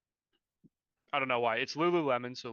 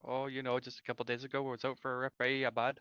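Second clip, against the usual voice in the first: mock Canadian accent. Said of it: "chat in Canadian".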